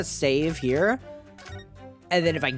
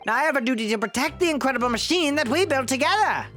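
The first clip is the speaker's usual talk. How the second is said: put-on very old man; 10 semitones higher, faster than usual. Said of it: "the old man voice".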